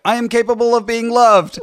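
high, loud declaration; mock yell. Retelling own joke to cohost, mock yell. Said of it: "I wanna yell out".

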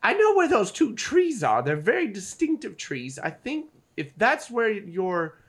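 hint of an eager in-character guide; helpful goblin guide. Goblin guide telling travelers she knows the trees, helpful. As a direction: pitch leaping high, then settling.

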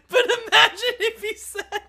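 high-pitched, breaking up with laughter; real laughter squeezing the words; laughing. Real, not acted. Host cracking up at own bad impression, laughing hard. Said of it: "I'm laughing because I".

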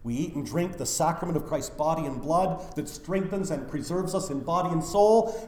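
ordinary delivery

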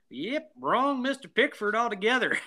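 high-pitched imitation of a movie delivery guy; beer delivery guy impression. Podcaster quoting the beer delivery guy for laughs, high mock delivery. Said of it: "Just the way he delivers that".

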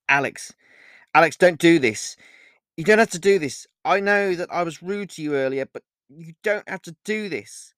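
urgent pleading. Acted. Olivia struggles to escape Alex's grip, urgently pleading. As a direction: beg him to stop, urgently.

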